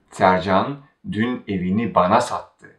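bana made the focus before sattı; stress on bana. Shown as a demonstration. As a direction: put the weight on bana. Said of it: "Now we focus on bana".

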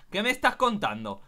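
ordinary delivery

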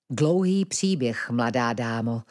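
smiling. Acted. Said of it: "usmál se na ní Edmund".

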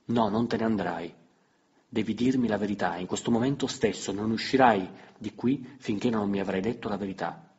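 loud insistent cry; shouting. Acted. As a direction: demand the truth at full voice. (grido insistente, voce forte)

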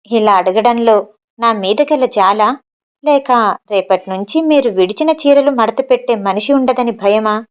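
lightly sneering question; a touch of scorn, slowing at the start; a little mocking. Maid Mani mocking the daughter-in-law, a little scornful. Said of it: "అడిగింది మణి కాస్త హేళనగా".

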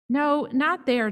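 calling out across the store; loud call; shouting. A narrator's reading. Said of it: "I shout".

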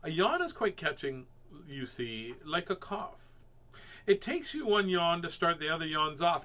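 newsy storybook voice; story reading. A narrator's reading. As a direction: announce it like a kids' story. Reading aloud to children.

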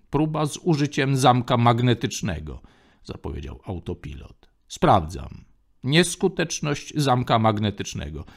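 even, mechanical machine read-out; autopilot voice. Acted. Ship autopilot reporting to Lando, mechanical voice. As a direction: announce each step like a ship's computer.

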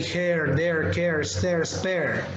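"hair", "there", "care" ending with a clear r; American pronunciation. Shown as a demonstration. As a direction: sound the final r in "hair" and "pair", American style. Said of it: "In American English".

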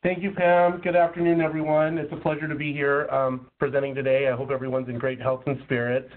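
slightly rusty, under the weather. Real, not acted. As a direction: talk through a sick, rusty voice. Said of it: "please excuse my voice".

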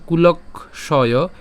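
slow, careful chant of the second line; slow recitation. Shown as a demonstration. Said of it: "second লাইনটা বলি". (ধীর লয়ে দ্বিতীয় line পাঠ)

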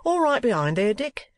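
high call with a rising question. A narrator's reading. Coachman checking with the guard, calling out. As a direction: cry it out to the back of the coach. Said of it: "cried the coachman".

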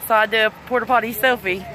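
breathless after rushing about; out of breath. Real, not acted. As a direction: talk while catching your breath. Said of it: "I'm out of breath".

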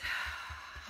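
soft unvoiced exhale; quiet release sigh. Shown as a demonstration. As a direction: let the breath go. Breath release in exercise.

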